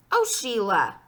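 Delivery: loud, irritated call; exasperated shout. A narrator's reading. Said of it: "I shouted".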